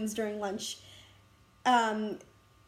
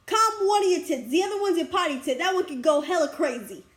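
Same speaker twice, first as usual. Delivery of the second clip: put-on Boston accent; 3 semitones higher than usual. Imitating her friend's joke about calming down, Boston accent. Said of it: "in Boston accent".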